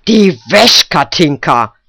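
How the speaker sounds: put-on old woman's loud demand; shouting. A narrator's reading. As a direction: bark it right beside the girl. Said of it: "trat ganz dicht ... Knack und rief".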